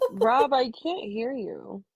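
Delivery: drawn-out call across the room; slow calling out. Real, not acted. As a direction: call his name slowly and loudly. Calling out to a muted friend.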